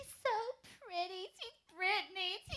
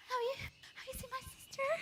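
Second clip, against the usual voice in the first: tearful plea; crying; 6 semitones higher than usual. Acted. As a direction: ask it close to tears. Lost girl asking, near tears.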